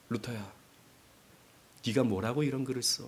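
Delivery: low, hushed tempter; devil's voice. Acted. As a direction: needle him softly and low. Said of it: "마귀의 음성이 들립니다".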